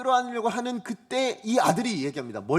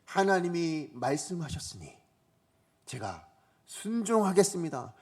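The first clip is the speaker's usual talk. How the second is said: quiet obedience. Pretend. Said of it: "그저 묵묵히".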